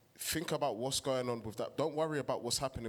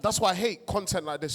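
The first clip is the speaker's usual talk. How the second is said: passionate; 4 semitones higher, 4 dB louder than usual. Real, not acted. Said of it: "I'm passionate".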